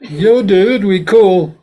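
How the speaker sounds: cool laid-back rapper in a beer ad; rapper impression. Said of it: "like a rapper in a Corona beer commercial".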